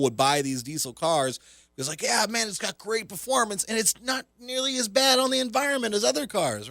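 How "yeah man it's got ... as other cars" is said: high-pitched mock customer voice; imitating a keen buyer, pitched way up; enthusiastic car buyer. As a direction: gush like a sold-on customer.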